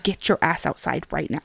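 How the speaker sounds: quick, hushed order under the breath. Retold or imitated. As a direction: hiss it fast so nobody hears. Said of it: "Like, under my breath, real quick".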